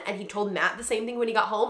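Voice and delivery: normal talking voice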